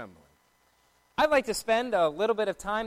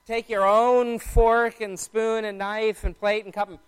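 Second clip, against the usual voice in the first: louder, with "own" most prominent; stress on "own"; 5 dB louder than usual. Shown as a demonstration. Mom sending dishes to the sink, stress on "own". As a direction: hit "own", then list the items. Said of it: "There's emphasis on the word own in that sentence".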